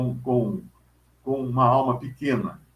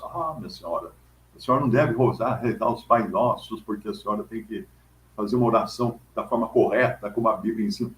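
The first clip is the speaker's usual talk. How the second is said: know-it-all reply; 4 semitones lower, faster than usual. Retold or imitated. Know-it-all correcting the church lady, lightly voiced and a bit lower. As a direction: lecture her kindly but smugly. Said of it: "vem uma pessoa e fala assim".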